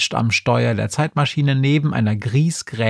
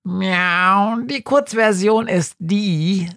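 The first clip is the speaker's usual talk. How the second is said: high, fast-talking meowing cat; chattering cat voice; 8 semitones higher, slower than usual. Acted. Schrödinger the cat pesters Günther, high and chatty. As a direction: babble excitedly like a scatterbrained cat.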